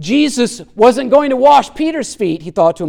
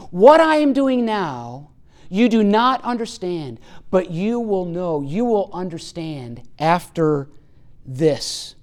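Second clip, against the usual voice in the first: slow, softer, fading gently; slow for memorizing; 4 semitones lower, 6 dB quieter than usual. Shown as a demonstration. Preacher letting Jesus' words sink in, slow and hushed. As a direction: let each phrase sink in, dropping away. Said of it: "well worth memorizing".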